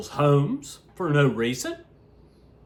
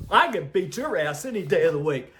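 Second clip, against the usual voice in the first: laughing taunt; faster than usual. Real, not acted. Laughing challenge to Trump.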